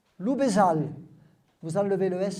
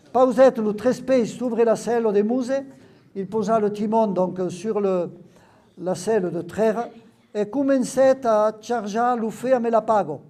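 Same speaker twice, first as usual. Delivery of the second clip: reading the Occitan text aloud, a little louder; lecture en occitan; 4 dB louder than usual. Acted. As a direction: read the patois passage with care. Lit un texte occitan. (lecture appliquée d'un texte occitan)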